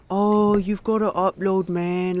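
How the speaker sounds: lightly mocking fake-nice voice, drawn out at the start; slow, insincere apology to his face; two-faced sweet talk. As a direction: imitate a fake friend sucking up. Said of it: "to Woody's face, he'd be like".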